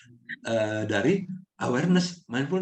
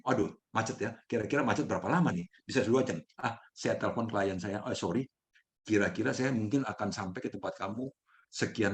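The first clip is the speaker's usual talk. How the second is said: softer, level-headed, taking the traffic jam in stride; softer, easygoing self-talk about calling the client; calm positive self-talk; 3 semitones lower, 6 dB quieter than usual. Retold or imitated. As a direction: talk yourself through it calmly and quietly. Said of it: "kalau yang positif".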